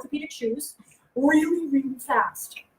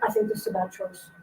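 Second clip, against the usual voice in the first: dry warning; 8 semitones lower, 7 dB quieter than usual. Retold or imitated. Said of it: "I was like".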